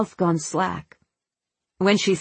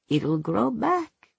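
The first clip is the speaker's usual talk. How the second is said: gentle reassurance; 5 semitones higher, 3 dB quieter, slower than usual. A narrator's reading. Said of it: "Mommy had said".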